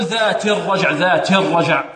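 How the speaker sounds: "ذات" with its final i vowel spoiled before "الرجع"; wrong kasra. Shown as a demonstration. Teacher warning against a slip, faulty vowel demo. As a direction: let the i ending of "ذات" slip. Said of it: "ولا نقول".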